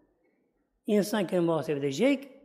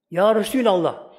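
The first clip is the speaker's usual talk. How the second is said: a mild mock call, a touch louder; Bedouin calling out; 5 dB louder than usual. Bedouin calling out to the Prophet, mild mock shout. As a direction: call out to the Prophet like a rough desert man, half-shouted. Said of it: "Böyle bağırarak konuşuyorlar".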